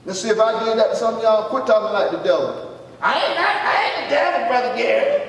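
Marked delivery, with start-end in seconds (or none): 3.0-5.2 high, indignant mock protest; comic wounded objection, voice rising high at the start; protesting church member. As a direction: imitate an offended listener, pitched up. Mimics an offended church member protesting.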